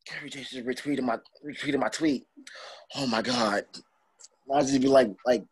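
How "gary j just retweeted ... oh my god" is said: softly acted amazement; hushed disbelief. Wrestler sees his hero retweeted him, hushed disbelief. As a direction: replay a starstruck moment under your voice.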